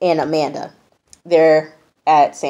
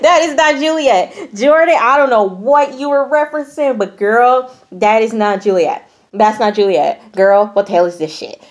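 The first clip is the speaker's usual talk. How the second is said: high, emphatic incredulous protest; amused disbelief; 5 semitones higher, 4 dB louder than usual. Real, not acted. Host reacting to a painting unlike Juliet, incredulous. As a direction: start high and exasperated, easing down as you go.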